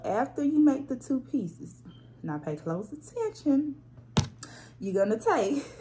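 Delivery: a hint of a teacher calling for attention. Real, not acted. Hair tutorial host telling viewers to pay close attention, teacher voice. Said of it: "my teacher voice".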